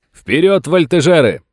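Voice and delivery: rally the men forward; battle cry. Acted. Sam ordering the soldiers to charge, shouting. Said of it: "крикнул".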